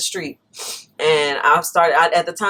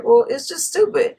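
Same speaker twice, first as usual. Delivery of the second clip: mock young guy; 9 semitones higher than usual. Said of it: "being a young guy and just like".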